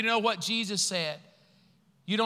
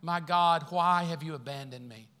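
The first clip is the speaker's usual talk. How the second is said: Jesus' cry. Retold or imitated. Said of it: "Jesus said".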